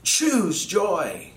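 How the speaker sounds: Paul calling out to the church, urgent call; sudden call for attention. Retold or imitated. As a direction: call it out to grab everyone's attention. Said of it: "attempting to get everyone's attention suddenly".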